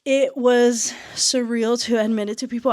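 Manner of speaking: slightly breathless; out of breath. Real, not acted. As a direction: speak a little winded. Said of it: "I don't know why I'm out of breath".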